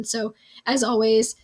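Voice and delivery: worn-out, hoarse speaking voice. Real, not acted. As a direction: talk through a shot, hoarse voice. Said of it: "I'm sorry my voice is shot".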